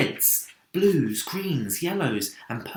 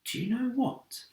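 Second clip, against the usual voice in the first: whispered; 13 semitones higher, 5 dB quieter than usual. A narrator's reading. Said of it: "James whispered".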